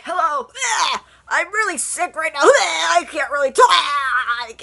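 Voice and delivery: high, loud, slow hammed-up moaning; overdone invalid groaning into the phone; fake sick voice. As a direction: play it pitifully sick to guilt the caller. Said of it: "that's my humor of trying to make a person feel really bad".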